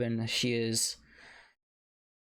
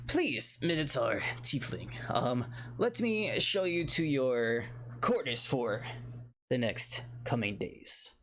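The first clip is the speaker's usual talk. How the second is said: put-on flustered old dwarf. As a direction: brush off the topic in a panic. Dwarf shows guests to rooms.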